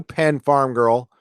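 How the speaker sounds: put-on Penn Farm Girl drawn out slowly, each word given weight; slow, deliberate naming of Penn Farm Girl; slow dedication. Shown as a demonstration. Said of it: "just for you".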